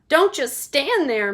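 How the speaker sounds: high, loud, slow demand; wife screaming at husband. Acted. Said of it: "Missus Gloop screamed".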